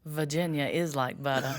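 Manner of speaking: soft buttery Virginia Southern accent. Shown as a demonstration. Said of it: "but I can do Southern".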